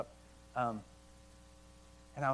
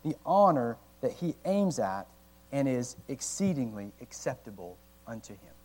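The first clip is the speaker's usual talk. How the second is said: reading slowly; 2 semitones lower than usual. Real, not acted. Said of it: "I have to read it slow".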